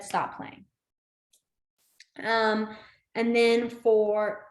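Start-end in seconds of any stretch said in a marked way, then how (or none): 0.0-0.6 breathy whisper of stop playing; whispered quote. Teacher quoting what she said to the kids, whispered. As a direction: whisper it back as a retold quote. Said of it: "I said".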